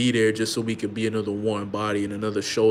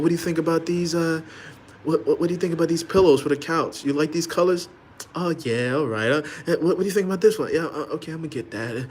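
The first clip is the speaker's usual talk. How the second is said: eager husband; 6 semitones higher than usual. Retold or imitated. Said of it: "talking about".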